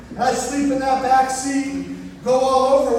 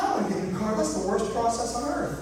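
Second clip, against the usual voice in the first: reluctant whine; 6 dB quieter than usual. Retold or imitated. Refusing to buy a new car.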